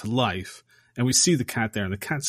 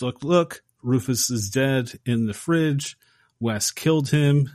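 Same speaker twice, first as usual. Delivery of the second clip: calling Dan in a lightly voiced panic; retold scream for help; 3 semitones higher than usual. Megan calling Dan over the dead cat, mildly alarmed. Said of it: "And she screams for Dan".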